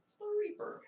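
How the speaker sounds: breathy hushed repeat; whispering. Pretend. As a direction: whisper it like a secret.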